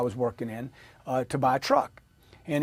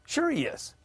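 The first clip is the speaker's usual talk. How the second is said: normal talking voice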